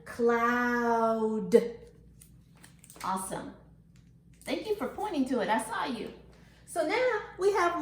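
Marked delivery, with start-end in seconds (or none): 0.1-1.6 CLOUD stretched, D released separately; long even cloud with a detached D; ending sound shown. Shown as a demonstration. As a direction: draw out cloud to show its last sound. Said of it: "It is the D".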